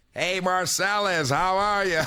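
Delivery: slow, measured coach greeting; Marv Levy. Retold or imitated. Head coach greeting his new draft pick on the phone, lightly imitated. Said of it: "'cause I know how Marv Levy sounds".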